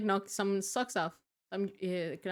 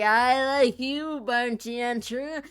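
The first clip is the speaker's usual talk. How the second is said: character voice; 3 semitones higher, 4 dB louder, slower than usual. Acted. Gruff tavern character voice.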